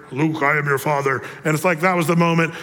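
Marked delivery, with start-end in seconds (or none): 0.1-1.2 Darth Vader quote. Retold or imitated. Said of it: "Luke Skywalker meets Darth Vader".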